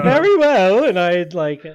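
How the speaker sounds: lightly voiced gentleman. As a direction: airily dismiss the guard. Player voices posh character.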